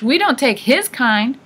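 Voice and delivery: high, loud and indignant; screeching. A narrator's reading. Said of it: "the old woman screeched".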